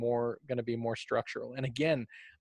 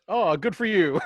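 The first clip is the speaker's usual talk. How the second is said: mock praise; 6 semitones higher, 7 dB louder than usual. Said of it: "they went".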